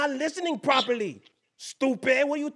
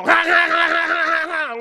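mock gunfire; 7 semitones higher, 10 dB louder than usual. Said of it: "I get the gaddy and go".

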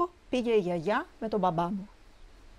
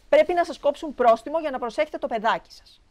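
raised, higher complaining voice; indignant scolding; 6 semitones higher, 5 dB louder than usual. A narrator's reading. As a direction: scold the grandmother as a cross dog owner. Dog owner scolds the grandmother. (ενοχλημένη επίπληξη με υψωμένη φωνή)

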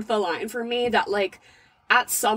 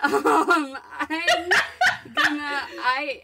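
laughing through words; 5 semitones higher, slower than usual. Real, not acted. Giggling at absurd choice.

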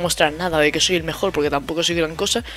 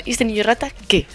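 mock blunt question; 4 semitones higher than usual. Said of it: "es que, en plan".

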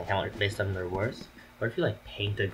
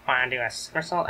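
Wario voice; 5 semitones higher, 4 dB louder than usual. Acted. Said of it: "So I'm gonna do Wario voice".

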